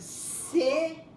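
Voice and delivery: CE, NOU, RA, very slow separate beats; syllable by syllable. Shown as a demonstration. Teacher models separating syllables for pupils, cenoura very slowly in beats. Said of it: "Você vai separar a sílaba de".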